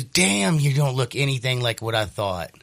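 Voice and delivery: retold surprise. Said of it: "He goes".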